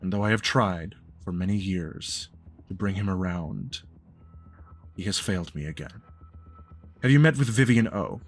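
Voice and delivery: measured, deliberate elder speaking with grave restraint; lightly voiced formal patriarch; stern, formal patriarch. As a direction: pronounce it like a solemn, disappointed father. GM speaks as Ulysses.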